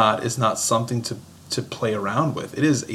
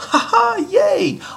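very high, fake cheery, gleeful whoop. Saying how a warning about hell should not sound: mock gleeful laugh. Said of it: "I don't say that with a".

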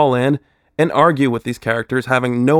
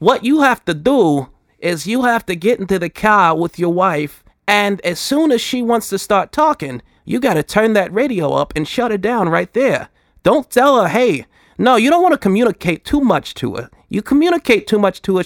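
harsh, abrasive, put-on Boston accent, pitched up; 7 semitones higher than usual. Explaining the voice choice, speaker performs the bit in an abrasive Boston accent. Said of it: "there's nothing more abrasive than the Boston accent".

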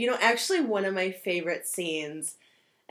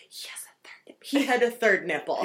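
put-on whisper shifting to full loud voice; 2 semitones higher than usual. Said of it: "whispering, and then she just says it out loud".

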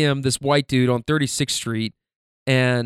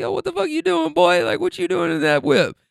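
mock creaky yelling, pitched very high. Telling a story, imitating the people on the porch, retelling people yelling. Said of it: "they start yelling like".

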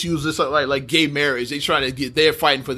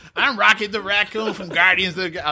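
raspy character voice, pitched slightly high; 6 semitones higher than usual. Trying out voicing a Guardians of the Galaxy character: raspy Rocket Raccoon voice. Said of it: "I think he talked kind of like this. ... I sound like I had a pack of cigarettes on that one".

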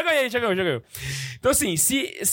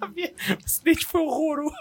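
crying with laughter, much higher pitch; 7 semitones higher than usual. Co-hosting a live chat stream after seeing a photo, crying with laughter. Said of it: "Eu tô chorando".

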